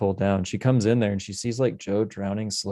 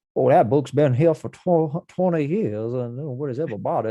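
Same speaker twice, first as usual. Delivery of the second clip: dubbed-over, pitched-up put-on Louisiana accent; 5 semitones higher, 3 dB louder than usual. Mocking a film's dubbing, imitating the library guy in a dubbed Louisiana accent. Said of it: "give them a Louisiana accent".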